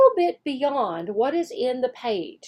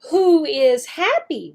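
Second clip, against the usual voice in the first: slow teacher question; 3 semitones higher, 3 dB louder than usual. Shown as a demonstration.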